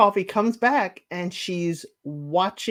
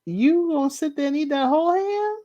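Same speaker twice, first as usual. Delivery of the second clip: mocking detective; 8 semitones higher than usual. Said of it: "So the detective is like".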